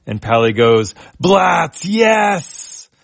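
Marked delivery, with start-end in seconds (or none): 1.2-2.9 much higher, squeaky eager yes; a little mouse blurting out delight; eager cry. Acted. Pally eagerly agrees.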